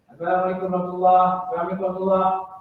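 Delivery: gabbled fast and low, both salams run together; mock hurried imam; rushed salam. Shown as a demonstration. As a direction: rattle off the salams carelessly.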